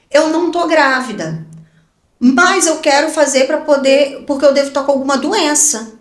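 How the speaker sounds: insista com o médico, um pouco mais aguda; autoridade encenada. Retold or imitated. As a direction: leve tom de quem manda. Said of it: "da autoridade". (autoritária, com firmeza)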